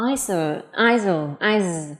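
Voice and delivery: "isol" slowly, with a buzzing z; z sound. Shown as a demonstration. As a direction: model "isol", then stop "is" on the z. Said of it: "cũng là âm z".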